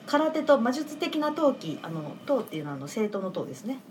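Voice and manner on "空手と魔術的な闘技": measured synopsis narration; あらすじの読み上げ. Real, not acted. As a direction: read a film synopsis aloud, evenly paced. (あらすじを読み上げる調子)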